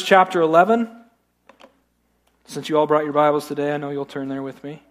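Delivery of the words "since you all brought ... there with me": dry, understated sarcasm, trailing softer; deadpan dig at the audience; sarcastic. Real, not acted. Pastor to congregation about their Bibles, dryly sarcastic. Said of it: "That was kinda sarcastic".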